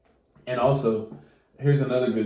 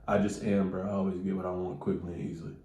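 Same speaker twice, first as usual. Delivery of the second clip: softer, quick, offhand; casual quiet; 3 semitones lower, 7 dB quieter than usual. Shown as a demonstration. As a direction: toss it off casually. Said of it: "Make it sound natural".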